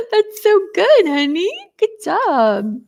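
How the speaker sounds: high, slow, delighted cooing. Real, not acted. Mother cooing at her son's pretend wings, high and delighted. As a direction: gush over the little one's wings.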